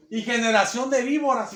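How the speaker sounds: retold shout. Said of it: "y les gritó".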